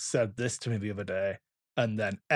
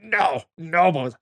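daughter crying out; 4 semitones higher, 3 dB louder than usual. Retold or imitated. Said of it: "And Evie's like".

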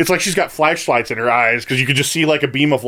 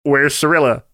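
higher-pitched, mock-testy questioning; 5 semitones higher than usual. The king questioning Geralt about his daughter, testy. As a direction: press for an answer with mild impatience. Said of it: "it's a very testy exchange".

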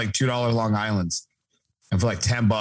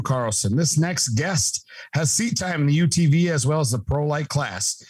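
hype-man ring announcer intro; 3 semitones higher than usual. Acted. Podcast host's hyped guest introduction.

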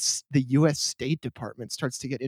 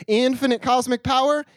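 quoting the Genie; 8 semitones higher than usual. Retold or imitated. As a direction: boom it out like the Aladdin Genie. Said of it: "to quote a famous philosophical tome called Al-Adin".

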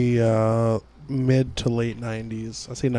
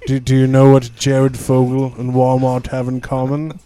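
Santa voice; 5 dB louder than usual. Pretend. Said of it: "It's Santa Claus".

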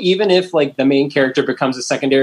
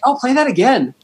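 put-on high little girl voice, pleading; imitating a small child asking for more; daughter's voice; 11 semitones higher than usual. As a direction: kid begging to hear the song again. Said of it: "my daughter was like".

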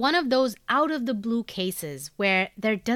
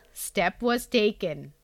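Indian English accent; slower than usual. Shown as a demonstration. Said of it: "Indian English accent".

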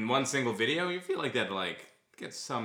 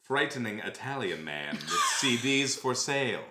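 deliberate read-aloud delivery, lingering on phrases; dramatic ad reading. Acted. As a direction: read the personal ad aloud, measured and theatrical. Reads a posted ad aloud.

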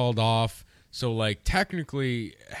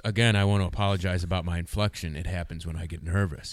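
Forrest Gump; 4 semitones lower than usual. Retold or imitated. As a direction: mimic the odd inflection, sinking in pitch. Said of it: "guy who talked like Forrest Gump".

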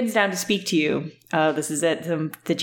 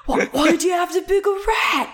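higher, louder shout; 11 semitones higher than usual. Acted. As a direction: yell it at the rat. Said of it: "Sorry, that was not a whisper".

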